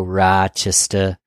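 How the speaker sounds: put-on drawn-out Rochester accent on the name; Rochester local accent. Showing listeners how some people in Rochester say it, imitated local accent. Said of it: "Some people in Rochester go".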